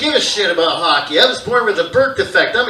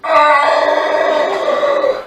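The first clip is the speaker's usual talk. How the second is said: scared yelp; 8 semitones higher, 6 dB louder than usual. Retold or imitated. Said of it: "gone from laughing hysterically to".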